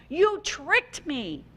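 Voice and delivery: slow, drawn-out cry of betrayal; a hammed-up but restrained yell at the frog; mild mock scream. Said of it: "he screamed at the frog".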